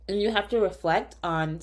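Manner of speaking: talking around a cough drop; words slurred by a lozenge; mouth full. Real, not acted. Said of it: "I have a cough drop in my mouth".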